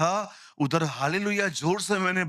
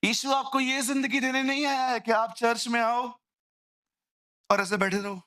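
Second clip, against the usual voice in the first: preachy rebuke; 7 semitones higher than usual. Acted.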